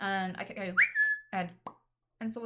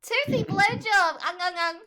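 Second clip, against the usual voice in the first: growly joke voice; 9 semitones higher, 10 dB louder, slower than usual. Acted. Joking bite threat.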